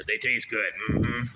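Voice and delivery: slow, dull mumble of a simple man; a hint of Sling Blade; lightly voiced Sling Blade drawl. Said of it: "start sounding like Sling Blade".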